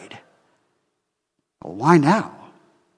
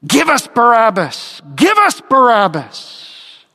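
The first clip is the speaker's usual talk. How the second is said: mock crowd shout, a bit higher; crowd crying out; 5 semitones higher than usual. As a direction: call it out like the crowd demanding. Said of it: "And they cry out".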